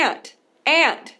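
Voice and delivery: aunt said slowly and clearly as a model word; Aunt, drawn out for students to copy; pronunciation demo. Shown as a demonstration. Teacher modelling aunt slowly for Brazilian learners. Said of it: "vamos falar sobre a pronúncia".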